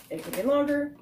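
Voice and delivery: "longer" lifted high against "sooner"; contrasting alternative. Real, not acted. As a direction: raise the pitch for the other option, "longer". Contrasts two possible dates.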